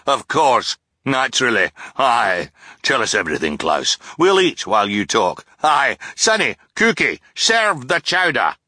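overexcited captain gushing praise at Klaus; boisterous sea captain. A narrator's reading. Captain character voice.

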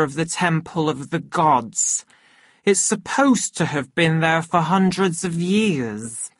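put-on slurred, thick drunken woman; thick tipsy words, lightly slurred. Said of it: "in a thick, drunken voice".

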